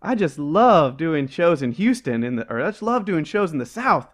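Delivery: a hint of an excited comic on stage; imitating comedian. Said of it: "where he's like".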